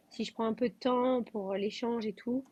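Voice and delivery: breathless, gasping between words; out of breath. Real, not acted. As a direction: talk while short of breath. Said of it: "pas mal essoufflée".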